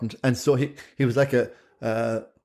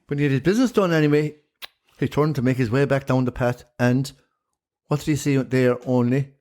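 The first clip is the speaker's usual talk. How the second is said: lilting Irish storyteller. Pretend. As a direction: tell it like an old Shanachie. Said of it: "give us a good old yarn that a Shanachie would".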